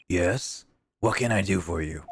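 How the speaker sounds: hissing snake-like voice; drawn-out s like a snake. Acted. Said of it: "I gave him the snake voice".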